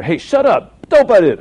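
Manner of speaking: the rude version he never said, half-played; mock rude outburst. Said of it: "I didn't say that".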